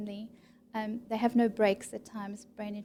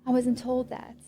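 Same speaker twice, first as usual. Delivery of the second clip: slow, taken-aback patient's protest; mock surprise, drawn out; surprised patient; 2 semitones higher, slower than usual. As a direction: act the patient caught off guard by the news.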